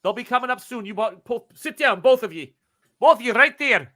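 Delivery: high-pitched commanding man; gruff gunman. Acted. Gunman orders the two to sit and wait, commanding. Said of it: "He's like".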